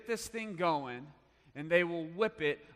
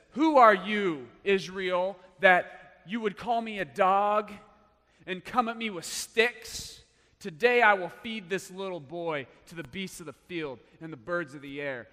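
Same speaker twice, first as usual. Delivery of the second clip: loud booming challenge, pitched up; giant's taunt; 3 semitones higher, 8 dB louder than usual. Acted. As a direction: roar it down at the little boy. Giant Goliath taunting David.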